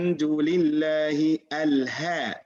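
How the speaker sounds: Alhamdulillahi with a plain h from the bottom of the throat; slow mispronounced recitation of Alhamdulillahi; mistaken ha. Retold or imitated. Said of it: "They should not say Al-Ha".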